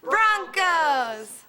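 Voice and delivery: shouted team name cheer. Real, not acted. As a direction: belt it out for the team. School cheer call and response.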